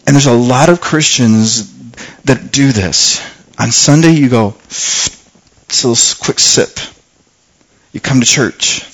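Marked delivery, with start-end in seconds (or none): 4.7-6.8 soft hushed whisper, barely voiced; a churchgoer taking one quick sip of God, whispered; whispered aside. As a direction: breathe it out like a secret. Mimics a quick Sunday sip.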